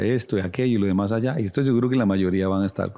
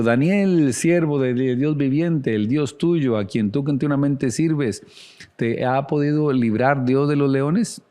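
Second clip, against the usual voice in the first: higher, drawn-out mournful call; raised, plaintive scripture reading; sad calling voice; 5 semitones higher than usual. Acted. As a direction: read it as a king calling out in sorrow. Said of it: "llamó a voces a Daniel con voz triste".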